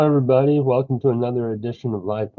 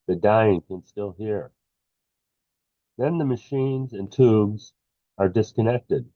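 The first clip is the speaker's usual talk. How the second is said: measured poem read in short phrases; poetry reading. Acted. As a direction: let each line fall, pausing between phrases. Reads own poem aloud.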